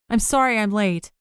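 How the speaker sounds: panting after a rush; breathless, gasping apology; out of breath. Acted. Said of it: "May panted out".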